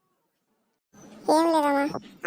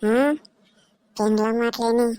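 ghostly, stretched-out scolding; feigned possession. Pretend. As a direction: drag out the line endings like a possessed woman. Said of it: "నిజంగా దయ్యం పట్టినట్టుంది".

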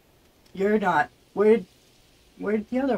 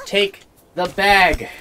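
slow insistent order; slower than usual. Real, not acted. Frustrated repeated order to game creature.

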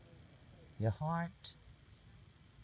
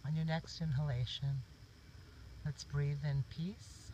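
guided meditation. Real, not acted.

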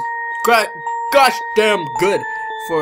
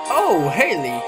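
put-on old man voice; 2 semitones lower, slower than usual. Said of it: "That was like an old man voice".

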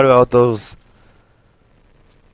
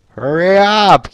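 squeaky high yelp; 6 semitones higher, 3 dB louder, slower than usual. Real, not acted. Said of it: "my voice went all super high pitch".

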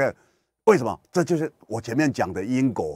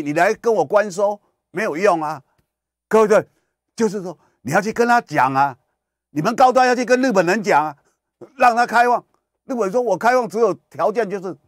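much higher, louder insistent telling-off; mock official lecture; 11 semitones higher, 6 dB louder than usual. Official loudly lecturing the vaccine maker to talk to Japan. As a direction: hammer the point home loudly. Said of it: "他说".

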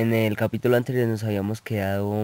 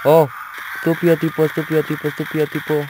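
higher, louder repeated insult; irritated insult; 6 semitones higher, 4 dB louder than usual. Real, not acted. Gamer cursing a hidden enemy soldier, irritated. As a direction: spit it at the enemy.

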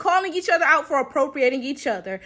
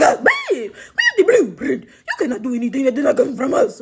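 mock African woman. Vlogger mocking an African commenter's boast in a put-on voice. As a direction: mimic a smug claim of being the blueprint. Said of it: "they be like".

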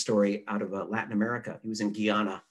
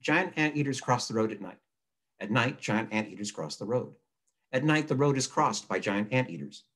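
read aloud to listen. Shown as a demonstration. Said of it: "listen to them".

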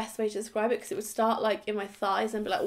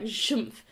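door noise. Retold or imitated. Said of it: "the door that goes".

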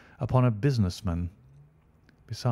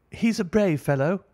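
high, raised voice of a woman in the crowd; woman bystander; 9 semitones higher than usual. A narrator's reading. A woman in the crowd praises the fallen man. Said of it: "said a woman".

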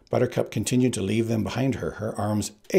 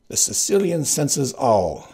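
slow, higher, louder boast; smug Sicilian; 5 semitones higher, 5 dB louder, slower than usual. Acted. Sicilian boasting to his crew, slow and smug. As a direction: savor the boast slowly.

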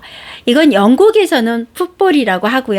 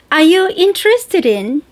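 slow, careful teaching read; slow demo; 5 semitones higher, much slower than usual. Shown as a demonstration. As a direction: spell out each word slowly for learners. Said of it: "이번 시간에는".

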